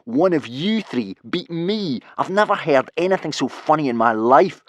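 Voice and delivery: high, loud mocking bully; crowing. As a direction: crow in scornful disbelief. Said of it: "crowed Snotlout".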